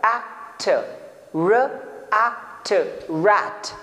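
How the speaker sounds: rat segmented and blended; blend sounds into rat. Shown as a demonstration. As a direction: phonics blending demo. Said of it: "we have र".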